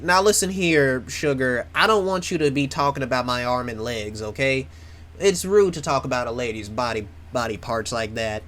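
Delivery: a hammed-up country accent, mildly scolding; terrible country accent. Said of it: "That's a terrible country accent".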